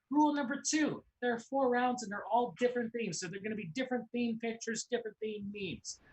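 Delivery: energetic host explaining the rules; game show host. Acted. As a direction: pump up the audience.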